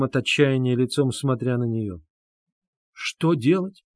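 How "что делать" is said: sudden high cry of resolve; exclaiming. A narrator's reading. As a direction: burst out, eyes flashing. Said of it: "воскликнула она".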